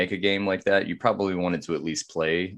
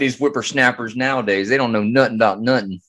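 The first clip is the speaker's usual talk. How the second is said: put-on higher, louder grumpy old man; old fogey voice; 4 semitones higher, 5 dB louder than usual. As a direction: grumble like a cranky geezer. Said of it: "we are looking like old fogies".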